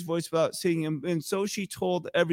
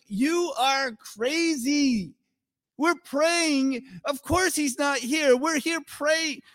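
dismissive; 7 semitones higher, slower than usual. Acted. Voicing the dismissive praying group.

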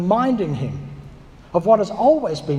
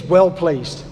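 a light East London "Well pleased"; East London accent; 3 semitones lower, 4 dB louder than usual. Retold or imitated. Preacher imitating Jamie Oliver praising a dish, light East London accent. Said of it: "if you could say it in an East London accent".

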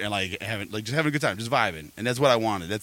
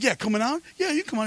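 much higher mocking squeaky retort; sarcastic mimic; 14 semitones higher than usual. Mocking the blocking dude's double standard, high sarcastic mimic.

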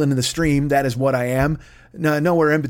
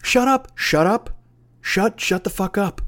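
exasperated outburst; 7 semitones higher than usual. Real, not acted.

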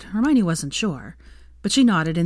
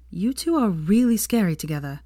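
put-on nervous young man's voice; uneasy Neville; 3 semitones higher than usual. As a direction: shrink back from them. Neville unnerved by the pair.

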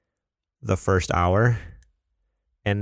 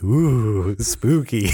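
drawn-out playful spooky ooh; awed kid; 4 dB louder, much slower than usual. Retold or imitated. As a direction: imitate a kid thrilled by a ghost story. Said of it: "like a kid like listening to this story".

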